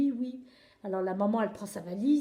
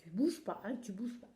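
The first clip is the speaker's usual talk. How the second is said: consigne feutrée; 2 semitones lower, 7 dB quieter than usual. A narrator's reading. Le pivert ordonne doucement.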